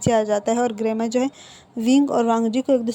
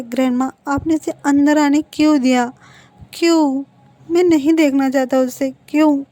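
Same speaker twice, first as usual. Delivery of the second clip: raised, pleading why; louder, indignant demand to grandma; upset protest; 3 semitones higher, 6 dB louder than usual. Retold or imitated. Grandson loudly protests to grandma why she let him in.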